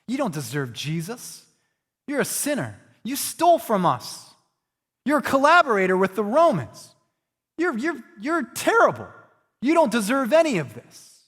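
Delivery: grumbling crowd. Retold or imitated. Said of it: "And they say".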